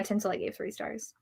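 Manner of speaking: ordinary delivery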